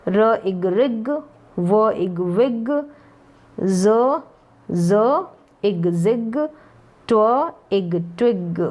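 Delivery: slow, stretched sounding-out; drawn-out phonics. Shown as a demonstration. Teacher blending letter sounds for learners, drawn out. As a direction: sound out each part slowly, then blend. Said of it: "खींच के मैंने थोड़े long बता दिए हैं".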